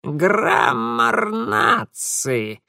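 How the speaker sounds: very slow creaky spirit voice; creaking creature. A narrator's reading. Mara creaks a strange word at Mitya, very slow. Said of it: "непонятно проскрипела Мара".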